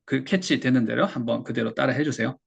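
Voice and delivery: ordinary talk, nothing marked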